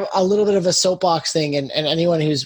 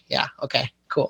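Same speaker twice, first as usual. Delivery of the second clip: mock grudging acceptance; 4 semitones lower, 5 dB quieter than usual. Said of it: "because I'm obnoxious".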